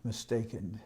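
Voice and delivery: high, soft, feigned innocence, ending almost in a whisper; coy innocent Krishna. Acted. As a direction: play the little cowherd boy pretending not to understand. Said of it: "Krishna doesn't exactly admit it".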